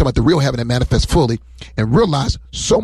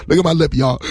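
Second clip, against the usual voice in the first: mock crying; 3 semitones higher than usual. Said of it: "started crying".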